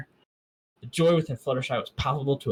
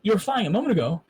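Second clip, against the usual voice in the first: much higher and louder, fast and amazed; ecstatic; 10 semitones higher, 4 dB louder than usual. A narrator's reading. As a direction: shout it out in pure amazement. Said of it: "I said ecstatically".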